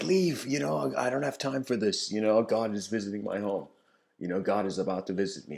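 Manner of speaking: rushing at the end, flustered and dismissive; impatient brush-off. Acted. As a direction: hurry him away, too busy for him. Lady impatiently refuses the mailman.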